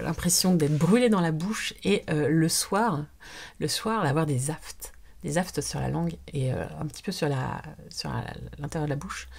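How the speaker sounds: zozote à cause des aphtes; zézaiement. Real, not acted. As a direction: parler avec des aphtes sur la langue. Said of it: "Et zozoter comme ça". (bouche douloureuse qui zozote)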